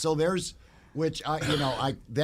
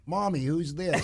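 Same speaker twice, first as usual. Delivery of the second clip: put-on higher, light kid voice; child voice; 4 semitones higher, slower than usual. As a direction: ask like a curious little kid. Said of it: "the kids will go".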